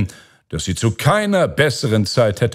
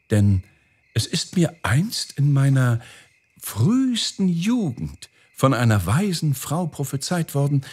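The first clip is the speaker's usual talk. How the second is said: owl princess voice, lifting higher in places; a measured, pitched-up owl character; hopeful owl princess; 6 semitones higher than usual. Acted. Owl telling the Caliph of an old prophecy, hopeful owl voice.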